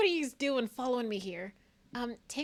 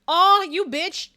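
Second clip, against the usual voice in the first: drawn-out, louder, slow fake offense; mock outrage; 6 semitones higher, 12 dB louder, slower than usual. Real, not acted. Reacting to the game with slow mock outrage. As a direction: stretch the oh in playful outrage.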